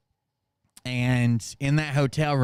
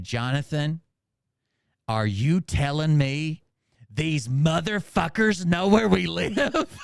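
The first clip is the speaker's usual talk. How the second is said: slow, disbelieving, rising higher; mock stunned sister; 3 semitones higher, slower than usual. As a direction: deliver the punchline in slow shock. Sister's stunned punchline question.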